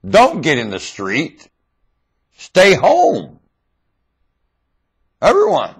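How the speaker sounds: loud, slow, high shouting; slow rising shout; ranting shout. Real, not acted. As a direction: rail at the crowd. Ranting call to boycott.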